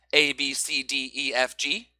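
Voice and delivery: each letter hit evenly as a strong beat; every syllable stressed. Shown as a demonstration. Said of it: "Notice how all those syllables are stressed".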